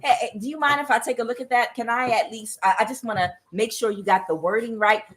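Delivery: timid staffer. Pretend. Staffer asking to check the president's wording, mock timid. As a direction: gingerly ask the boss for a look. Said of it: "somebody like".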